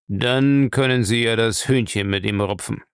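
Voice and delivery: lightly voiced old boss, unimpressed; frowning old master. Bellamy answers his hotheaded servant, frowning and controlled. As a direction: add it evenly with a frown. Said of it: "mit einem Stirnrunzeln fügte er hinzu".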